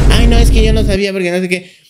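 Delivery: loud, whiny mock of a sulking contestant; a mild mock whine; whiny excuse. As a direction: whine the excuse like a spoiled child. Mocking Georgiana's whiny excuse.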